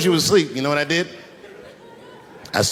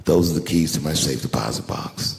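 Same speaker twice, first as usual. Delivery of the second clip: tender reassurance; 10 semitones lower than usual. Retold or imitated. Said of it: "I said".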